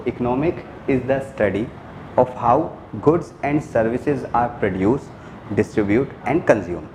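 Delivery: teacher dictates the definition to class, slowly and clearly; slow dictation. Shown as a demonstration. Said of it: "teacher dictating the definition".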